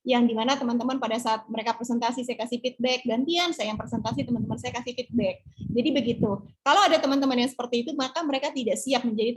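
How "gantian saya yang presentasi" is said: ordinary talk, nothing marked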